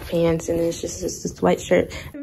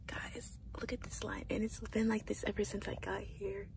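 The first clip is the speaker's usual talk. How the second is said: whispering; 15 dB quieter than usual. Real, not acted. Pointing out a long queue.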